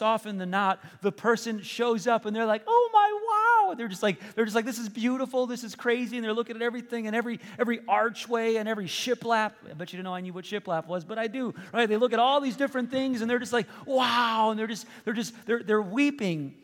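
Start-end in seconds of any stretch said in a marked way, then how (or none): 2.7-3.7 high, loud imitation of an amazed homeowner; big acted gasp of wonder; awed wow. Homeowners' awed reaction at unveiling, acted. 4.6-6.2 imitated amazement. Imitating overwhelmed homeowners. 13.9-14.5 higher, louder mock amazement; awed wow. Imitating homeowners seeing every detail.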